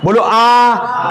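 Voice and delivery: slow, wide-open आ; आ drawn out with the jaw wide open. Shown as a demonstration. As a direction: open the mouth fully on आ. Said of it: "आ में पूरा खुल गया".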